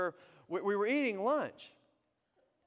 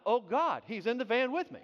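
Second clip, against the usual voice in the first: mock cry to God, raised a little; 4 semitones higher, 4 dB louder than usual. Driver re-enacting the pastor's prayer, mock crying out. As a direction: imitate a desperate plea, louder at the start. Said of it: "you cried out to God".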